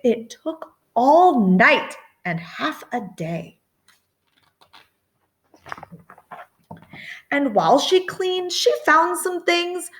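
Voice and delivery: lilting read-aloud voice; reading to children. A narrator's reading. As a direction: read it like a bedtime picture book. Story narration in rhyme.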